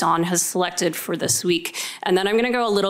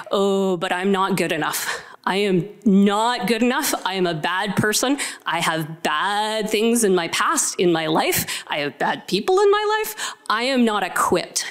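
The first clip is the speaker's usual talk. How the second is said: self-doubting excuses. Retold or imitated. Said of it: "we say".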